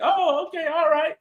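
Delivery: high, meek going-along voice; high meek agreeing. Retold or imitated. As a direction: squeak out a timid yes. Imitating lady's meek agreement.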